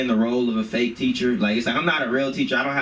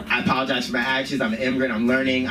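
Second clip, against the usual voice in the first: quick rehearsed mock apology; PR-trained apology. Teacher scared of being canceled, rehearsed apology. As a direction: recite it like trained damage control. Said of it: "P R, like, trained".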